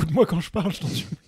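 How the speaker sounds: loud, pleading exasperation; exasperated shout. Pretend. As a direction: snap at a friend who isn't listening. Scolding friend who ignored him.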